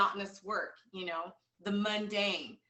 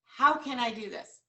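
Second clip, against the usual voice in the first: firm repeat; 3 semitones higher, 6 dB louder than usual. Shown as a demonstration. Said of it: "cross that off and write down".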